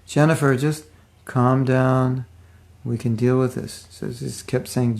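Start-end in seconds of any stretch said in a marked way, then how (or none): 0.1-3.9 mildly acted reassurance; really calm. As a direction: retell the soothing words evenly, in short phrases. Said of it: "really calm".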